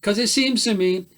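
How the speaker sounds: put-on bush ballad read in a light New South Wales Australian accent; old South Walian accent. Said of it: "I'm gonna do it in an old South Walian accent".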